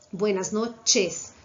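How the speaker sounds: "buenas noches" very slow, every E open and distinct; teacher models "buenas noches" slowly; slow clear E. Shown as a demonstration. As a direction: draw out "buenas noches" for students to copy. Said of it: "Tem que ser bem pronunciado essa letra E".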